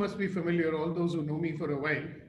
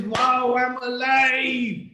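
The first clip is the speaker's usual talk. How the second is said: loud, higher cry of joy, vowels stretched long; exuberant joy; 4 semitones higher, 5 dB louder, much slower than usual. Acted. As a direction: declare it jubilantly to the whole room. Acting out a joyful point of view.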